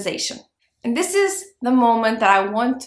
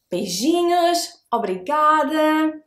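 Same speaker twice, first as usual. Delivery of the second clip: higher, brighter farewell to viewers; cheerful goodbye; 6 semitones higher, 4 dB louder than usual. Real, not acted. Host says goodbye to her viewers, cheerful. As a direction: sing out the goodbyes.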